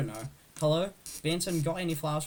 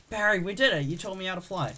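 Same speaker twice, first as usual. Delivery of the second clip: excited, raised-pitch relief; elated; 4 semitones higher than usual. Acted. Celebrating the landing.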